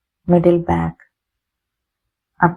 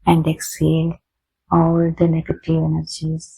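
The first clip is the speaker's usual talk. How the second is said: drawn-out inhale and exhale cues; very slow breathing instructions; much slower than usual. Shown as a demonstration. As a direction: stretch each word like a long breath. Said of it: "take a deep breath".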